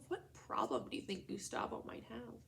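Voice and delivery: whispered question to the class; secretive classroom whisper. Real, not acted. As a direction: lean in and whisper it. Teacher prompts class to think.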